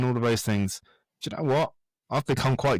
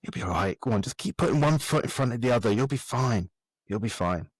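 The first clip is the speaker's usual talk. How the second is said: ego talking. Retold or imitated. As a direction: murmur it to yourself like your own ego egging you on. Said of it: "my ego's going".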